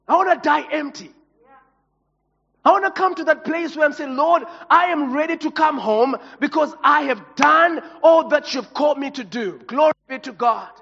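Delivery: loud, fervent sermon build; preaching at full force. Acted. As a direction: preach it out, climbing to a shout.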